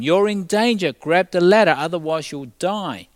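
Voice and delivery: loud, high call over a megaphone; megaphone shout. A narrator's reading. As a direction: shout it down from the helicopter. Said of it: "with a megaphone called out to him".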